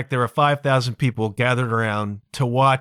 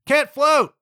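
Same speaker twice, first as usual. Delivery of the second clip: Can't float! yelped high and louder; panicked yelp; 12 semitones higher, 3 dB louder than usual. Retold or imitated. A panicking learner in the pool yelps Can't float!. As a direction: blurt it out in a panic.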